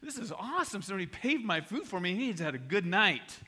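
acted happy reaction; happy, smiling. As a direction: gush with a smile. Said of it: "the guy's all happy and smiling".

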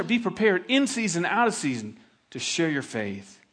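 fervent sermon exhortation; preaching exhortation. Real, not acted. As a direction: drive it home to the congregation. Pastor urging the congregation to evangelize.

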